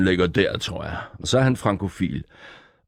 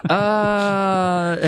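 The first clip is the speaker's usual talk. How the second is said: ost; 9 semitones higher than usual. Acted. Improviserer stemme som en ost.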